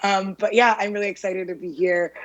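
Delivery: talking with a sore throat; slightly hoarse, sore-throated speech. Real, not acted. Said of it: "apologies for my sore throat".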